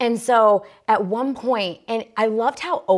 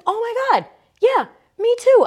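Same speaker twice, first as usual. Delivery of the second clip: very high imitated squeal of recognition; gushing agreement; 5 dB louder, faster than usual. Yoga neighbor agrees about her period, imitated gushing. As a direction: imitate a relieved, gushing friend.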